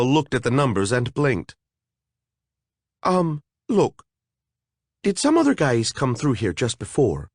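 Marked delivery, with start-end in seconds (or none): 3.0-7.3 higher, hesitant fairy; a frightened fairy stalling for time; nervous fairy. Acted. A fairy questioning the monster, nervous and higher.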